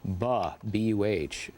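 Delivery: buh said as a short clipped syllable, then spelled B U H; sounding out buh. Shown as a demonstration. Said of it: "beginning with the sound".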